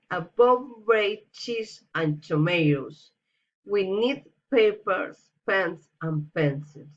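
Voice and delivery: each item rising, the last one falling; list intonation. Shown as a demonstration. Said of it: "Enumeration, reason intonation".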